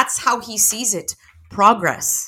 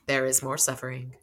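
said quietly; 4 semitones lower, 7 dB quieter than usual. A narrator's reading. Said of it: "Michael said quietly".

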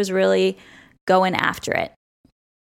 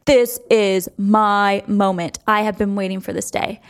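mock-epic guard before the tackle; dramatic security guard. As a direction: savor it like a guard living his big moment. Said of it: "the security guard was like".

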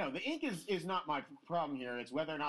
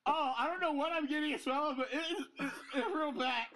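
disgusted by smell; 10 semitones higher than usual. Real, not acted. Gagging at smell, laughing.

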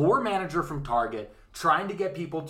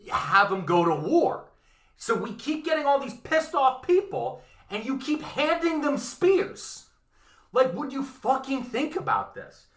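exasperated rant; 5 semitones higher than usual. Retold or imitated. Consuls scolding senators who nearly caused a riot, exasperated rant. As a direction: lay into them.

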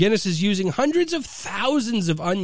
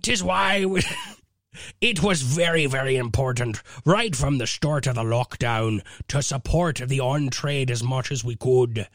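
full pirate. Acted. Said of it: "I'll just do it in full pirate".

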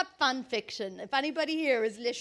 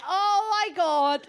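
louder, slower thrilled gasp; mock-thrilled oh my God; excited gasp; 5 semitones higher, 6 dB louder, slower than usual. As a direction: react like the surprise has arrived. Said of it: "So I was like".

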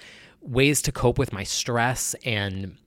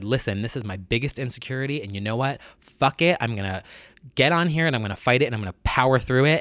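passionate; faster than usual. Real, not acted. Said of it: "I was getting passionate right there".

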